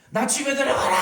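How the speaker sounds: high loud bellow as the lowing cow; voicing a cow. Preacher voicing a cow calling its owner, high loud bellow. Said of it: "자기 주인한테 그렇게 운다니까요".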